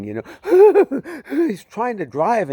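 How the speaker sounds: loud, high mock sobs; imitated sobbing. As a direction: act out a man sobbing uncontrollably. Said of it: "just sobbing".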